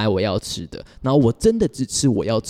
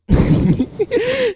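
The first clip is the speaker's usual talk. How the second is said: high giggle; 5 dB louder than usual. Real, not acted. Laughs mid-story.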